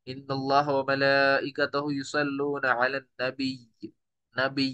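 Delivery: slow recitation, नबी held on a long doubled y; doubled ya at pause. Shown as a demonstration. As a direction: recite slowly and stretch the end of नबी without a final vowel. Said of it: "या की हरकत को जाहिर नहीं किया".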